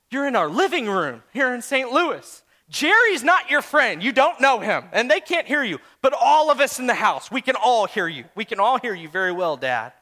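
a hint of exasperated teasing; finally telling dad off; exasperated son. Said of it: "I said".

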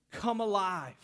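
measured, emphatic command, building; restrained preacher's call; acted yell. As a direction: deliver it as a slow, firm summons. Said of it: "Jesus wants to yell at you this morning".

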